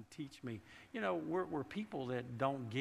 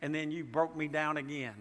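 complaining to God. Retold or imitated. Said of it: "I have been to the place at times where I thought".

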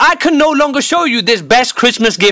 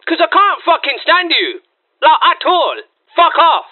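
blunt brush-off; 3 semitones higher than usual. Pretend. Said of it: "doing the following".

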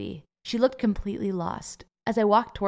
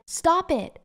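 yelled; 9 semitones higher than usual. A narrator's reading. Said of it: "Then I yelled".

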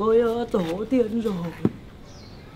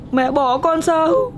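put-on crying child; 5 semitones higher, 3 dB louder than usual. Child begging abandoning mother.

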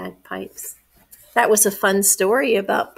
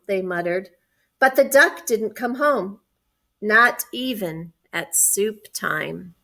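measured picture-book reading; story narration. A narrator's reading. Adult reading a picture book to children, story narration. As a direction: read it clearly to young children.

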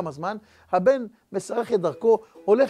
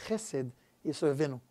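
quiet closing blessing; 4 semitones lower, 6 dB quieter than usual. Acted.

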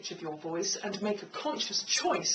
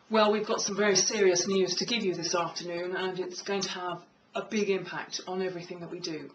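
low, authoritative delivery with gravitas; lower-pitched voice. Shown as a demonstration. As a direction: say it in a lower, serious register. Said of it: "lower pitches of voice".

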